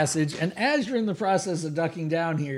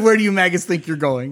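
orc leader; 4 dB louder than usual. Acted. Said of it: "they said".

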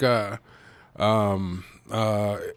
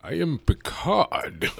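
Patrick Stewart impression; 3 semitones higher, 3 dB quieter, slower than usual. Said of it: "Patrick Stewart".

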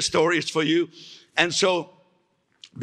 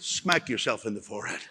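laughing retort; 6 semitones lower, 6 dB quieter than usual. Retold or imitated. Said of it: "I said".

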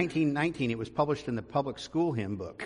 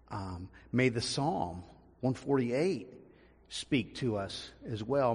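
prayer; 2 semitones lower than usual. Acted. Leads the congregation in prayer.

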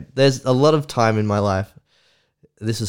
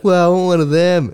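put-on excited kid voice; 10 semitones higher, 7 dB louder than usual. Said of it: "And I'd be like".

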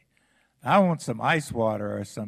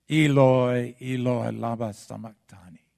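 cry fading away; 5 dB louder than usual. Acted. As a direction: let the cry drain out of him. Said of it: "in a loud voice".

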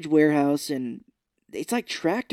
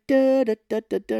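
loud, higher "da" bursts; vocalised beat, louder and higher; imitated musical hits; 8 semitones higher, 7 dB louder than usual. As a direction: punch out staccato da-da-das. Imitating percussive sounds from film.

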